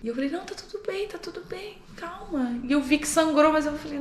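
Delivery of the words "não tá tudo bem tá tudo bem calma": high, soft reassurance; calm a hurt child in a high, soft voice; imitating gentle comforting; reenacted soothing.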